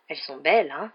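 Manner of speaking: proud and happy about his pumpkins; cheerful. Acted. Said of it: "dit Hagrid d'un ton joyeux".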